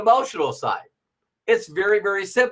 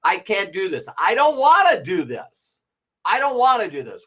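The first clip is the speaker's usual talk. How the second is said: mock whine. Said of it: "You actually say those words".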